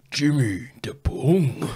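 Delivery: slow unvoiced whispered nickname; stoned whisper. Stoner exhaling and whispering to his mates, slow whisper. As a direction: breathe it out in a smoky whisper. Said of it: "And then he just goes".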